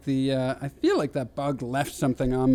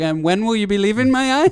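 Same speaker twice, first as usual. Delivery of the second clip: put-on British accent, higher and louder; mock British accent; 6 semitones higher, 5 dB louder than usual. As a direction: put on a rising, questioning British voice. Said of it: "If I was a British guy".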